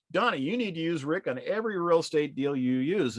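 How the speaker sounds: excited insistence. Retold or imitated. Neighbor John urging his fishing buddy Donnie to hire Rick, excited. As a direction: push it on your buddy with real enthusiasm.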